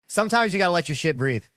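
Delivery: put-on high-pitched child's declaration; imitated little girl. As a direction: announce it like a proud four-year-old, high and loud. Quoting his four-year-old daughter.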